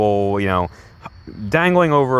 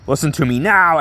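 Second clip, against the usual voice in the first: higher, mock-forceful order; commanding hero line; 5 semitones higher, 3 dB louder than usual. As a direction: demand attention like a comic-book hero. Voicing Batman's command on the train.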